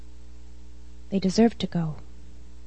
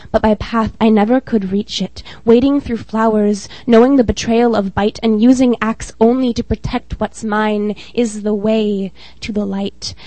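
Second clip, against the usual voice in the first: measured spoken-word poem reading; steady, earnest poetry reading; poem recital. Acted. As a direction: read it like a poem at an open mic.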